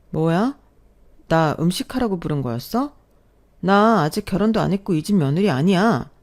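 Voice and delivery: a touch of indignant challenge, pressing the point; mildly confronting the boyfriend, voice edged; demanding tone. Retold or imitated. Narrator to boyfriend who called her to cook, mild indignant retort. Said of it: "따지듯 말했어요".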